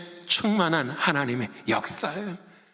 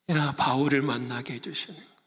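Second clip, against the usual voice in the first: ordinary delivery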